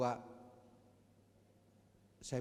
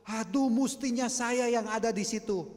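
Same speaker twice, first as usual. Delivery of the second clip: imitating wailing woman; 11 semitones higher, 11 dB louder than usual. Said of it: "dia nangis".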